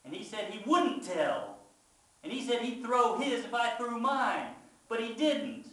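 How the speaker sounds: loud, high, desperate outburst; yelled confession. A narrator's reading. Child confesses whole story to Mama, yelled outburst. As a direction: pour it all out at a yell. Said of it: "can't help it. I yell out".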